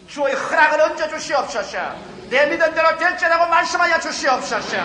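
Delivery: acted-out fervent petition; imploring prayer. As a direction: plead aloud to God, pitch lifted. Acting out a pleading prayer.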